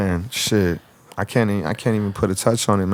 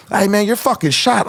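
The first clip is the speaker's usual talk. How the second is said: bystander voice; 10 semitones higher than usual. Retold or imitated. Bystander voiced in retold scene.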